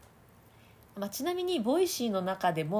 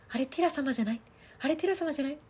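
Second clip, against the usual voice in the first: a touch higher, surprised fan; imitating an excited fan; 7 semitones higher, faster than usual. Coach imagining a female fan spotting Tira. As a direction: spot your idol in the crowd. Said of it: "とかいう女性がいたんでしょうね".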